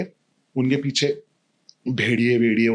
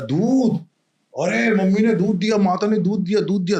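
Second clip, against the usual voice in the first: put-on overjoyed child; 8 semitones higher than usual. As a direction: squeal with delight like a little boy. (बच्चे की तरह ऊँची, खुशी भरी आवाज़ में)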